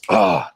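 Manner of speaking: low groan of someone coming to; mock a low, dazed "oh"; retold groan. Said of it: "he comes to, and he's just like".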